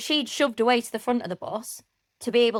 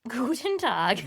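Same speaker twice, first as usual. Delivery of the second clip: higher-pitched German greeting, copied back; German accent attempt; 4 semitones higher, much slower than usual. Shown as a demonstration. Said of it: "You gotta start".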